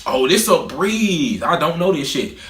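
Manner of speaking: slow, level "Oh, this a breeze" said with a give-up shrug; resigned shrug. Retold or imitated. A fast test taker guessing blind, resigned and nonchalant. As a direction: shrug it off knowing you're lost. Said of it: "If I don't know it".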